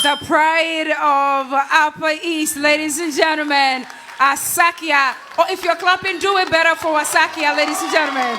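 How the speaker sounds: loud stage host hype; rally the crowd like an emcee; hype announcer. Real, not acted. Host introduces contestant.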